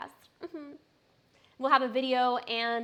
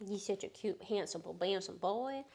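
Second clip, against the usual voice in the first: soft cooing; 5 dB quieter than usual. Real, not acted.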